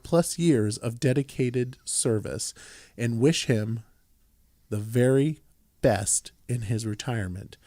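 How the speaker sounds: measured, projected proclamation reading; formal resolution reading. Real, not acted. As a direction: read it out as an official tribute. Reads out a resolution.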